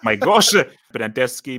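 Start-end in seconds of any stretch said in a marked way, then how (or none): 0.0-0.5 laughing, higher and louder; amused gasp through laughter; laughing exclaim. Real, not acted. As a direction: let the laugh spill into it. Laughing at unfamiliar names.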